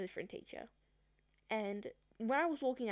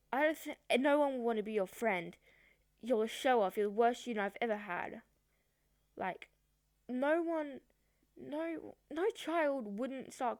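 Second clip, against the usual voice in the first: retelling a teacher's scolding, a bit louder; imitating a harsh teacher, raised voice; mock angry teacher; 4 semitones higher, 3 dB louder than usual. Girl retells teacher's scolding in class, mock angry.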